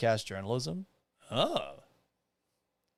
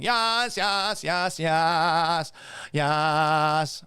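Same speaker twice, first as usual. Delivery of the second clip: mock yelling; much slower than usual. Reading repeated comments aloud, mock yelling. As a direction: keep the hammed-up cheer rolling. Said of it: "Why are you yelling".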